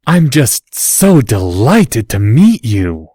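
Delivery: mock gushing. Draco mocking Harry's gushing.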